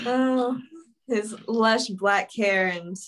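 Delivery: slow, drawn-out mock admiration; mock swooning. Co-host gushing over the Stefano character, slow mock swoon. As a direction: linger over each word as if smitten.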